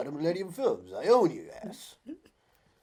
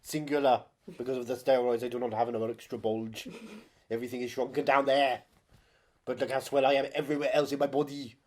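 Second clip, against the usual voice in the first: mock bodybuilder actor; 4 dB louder than usual. Voicing the actor.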